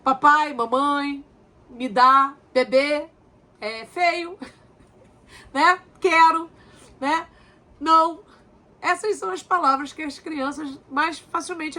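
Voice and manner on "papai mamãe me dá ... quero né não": put-on child's first words. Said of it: "primeiro aprendem a falar".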